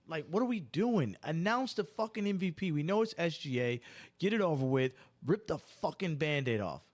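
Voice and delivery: exasperated ranting, pitch jumping up; hostile rant. Real, not acted. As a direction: vent at the league, fed up. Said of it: "I'm hostile about that right now".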